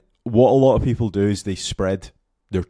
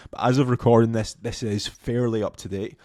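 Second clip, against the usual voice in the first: hoarse, voice giving out; losing voice; 3 semitones higher than usual. Real, not acted. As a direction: speak through a losing voice. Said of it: "Sorry, I am losing my voice".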